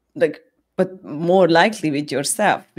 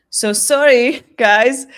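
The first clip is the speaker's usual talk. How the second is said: laughing apology; 5 semitones higher, 7 dB louder, slower than usual. Retold or imitated.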